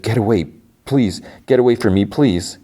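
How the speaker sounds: a touch of distressed urgency; mild pleading. Retold or imitated. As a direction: plead lightly, imitating an upset widow. Retold widow pushing Joel away.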